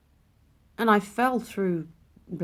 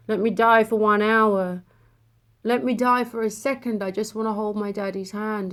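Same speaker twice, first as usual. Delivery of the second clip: louder, insistent retold plea; bargaining plea; 6 dB louder than usual. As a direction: plead your case, pressing harder. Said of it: "like I was negotiating with a higher source".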